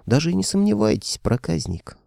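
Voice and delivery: high flirty purr, falling to a hush; coy queen. A narrator's reading. Queen flirting with Koschei, high playful lilt. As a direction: tease him like a flirty queen. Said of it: "понизила она голос".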